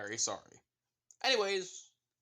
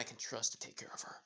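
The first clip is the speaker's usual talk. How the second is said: whispering; 3 semitones lower, 6 dB quieter than usual. Acted. Barrett quietly confiding.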